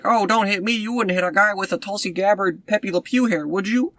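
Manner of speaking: high, pleading mock plea; Julia Louis-Dreyfus pleading. Mocking the villain begging the heroes not to hit her. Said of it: "Julia Louis-Dreyfus is like".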